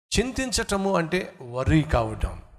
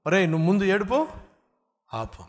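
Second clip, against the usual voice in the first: put-on firm parent telling child to stop crying; stern parent. Father to crying child, stern. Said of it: "ఇప్పుడు మీరేమంటారు?".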